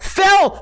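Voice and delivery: fell lifted high and set apart; air quotes on fell. Shown as a demonstration. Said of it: "should be in quotations".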